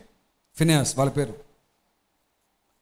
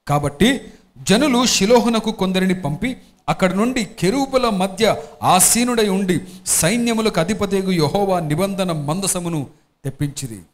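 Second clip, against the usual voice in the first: slow, louder, measured reading of scripture; 3 dB louder, slower than usual. Acted. Pastor reading scripture to the congregation, slow and solemn. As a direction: read it out to the congregation, weighty and slow. Pastor reads Bible passage aloud.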